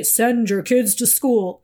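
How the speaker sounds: slow, solemn decree from above; mock voice from heaven. Mother pleading for guidance, slow mock heavenly decree. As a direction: hand down the answer like a heavenly voice, slowly. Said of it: "a voice from the heavens above come down and say".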